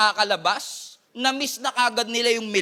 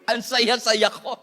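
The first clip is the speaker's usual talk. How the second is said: mock happy; slower than usual. Mock answer about job.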